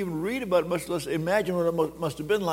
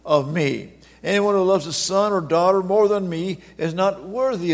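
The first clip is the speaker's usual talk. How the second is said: louder, solemn recitation of Jesus's words; scripture read out; 4 dB louder than usual. Retold or imitated. Preacher quotes Jesus to congregation, firm proclamation. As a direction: proclaim each line firmly. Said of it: "He says".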